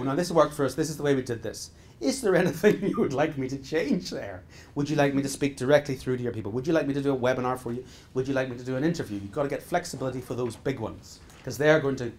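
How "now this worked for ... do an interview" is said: obliging offer. Retold or imitated. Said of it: "He's going to go".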